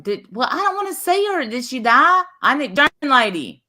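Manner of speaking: high-pitched worked-up yelling. Real, not acted. Co-host caught up in the other's panic, yelling. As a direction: blurt it out high and agitated. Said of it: "Why am I yelling?".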